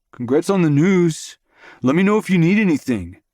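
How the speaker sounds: loud, called across the room; calling out. A narrator's reading. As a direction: call it out cheerfully. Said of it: "he calls out".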